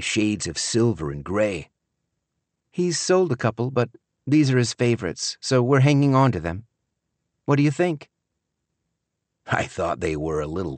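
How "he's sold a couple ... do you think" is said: higher-pitched daughter, chatting proudly; higher, eager daughter character; proud daughter's voice. Acted. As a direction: play the daughter showing off her partner's work.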